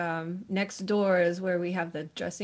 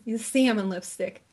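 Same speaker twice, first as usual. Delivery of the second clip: put-on New Jersey accent. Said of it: "That's my New Jersey accent".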